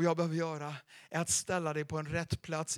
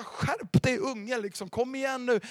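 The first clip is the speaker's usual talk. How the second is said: scolding youth pastor; 5 semitones higher than usual. Retold or imitated. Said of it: "förmanade honom".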